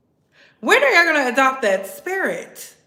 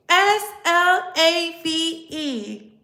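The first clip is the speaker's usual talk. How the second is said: slow, letter by letter; spelled out; much slower than usual. Shown as a demonstration. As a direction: spell it out slowly for the audience. Spells word out for the audience.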